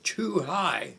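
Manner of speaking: high, loud indignant echo; imitated raving. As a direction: bellow it back in outraged disbelief. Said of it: "he had a voice you could hear for miles away".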